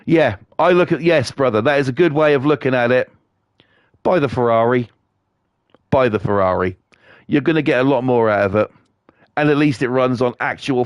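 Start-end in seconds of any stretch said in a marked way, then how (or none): 4.0-4.9 conspiratorial whisper, same pitch; sly whispered tip. Acted. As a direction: whisper it like a tempting secret. Urging, aside to a listener.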